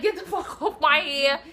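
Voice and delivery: half-laugh while acting out the fight; laughing mock yell. Recalling the fight, she laughs through her own mock yell.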